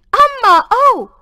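a beggar wailing loudly at the gate; beggar's wail. A narrator's reading. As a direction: wail it out to the house. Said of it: "came a wail from the gate".

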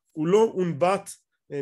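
ordinary talk

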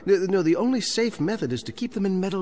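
can't stop explaining, rushing on; eager insistence. Acted. Librarian to Chancellor, eagerly insistent.

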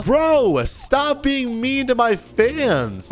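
indignant scolding. Real, not acted. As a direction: scold him in a high, stretched-out plea. Scolding a scammer for his fans.

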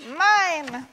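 put-on high, drawn-out childish cry; yelled demand. A narrator's reading. Yak claims it in the tantrum, yelling high. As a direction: whine it high, stretching each word. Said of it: "yelled Yak".

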